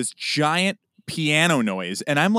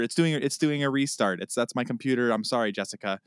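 softer, sheepish mumble; sheepish apology; 3 semitones lower, 5 dB quieter than usual. Retold or imitated. Apologizing to Jessica, softly sheepish. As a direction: back down, embarrassed. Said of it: "And I was like".

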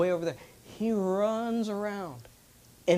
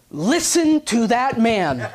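loud, slow laughing urging; 6 semitones higher, 7 dB louder, much slower than usual. Retold or imitated. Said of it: "And he goes".

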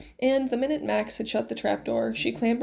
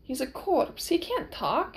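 put-on raised, accented disbelief; higher-pitched incredulous objection on the last words; Inigo, protesting; 5 semitones higher, slower than usual.

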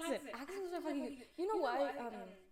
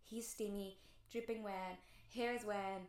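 dreamy hushed fantasy; 4 semitones lower, 6 dB quieter than usual. Pretend. Dreamy fantasy scene told softly.

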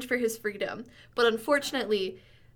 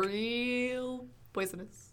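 slow drawl; 8 dB quieter, much slower than usual. Pretend. Repeating catchphrase slow quiet.

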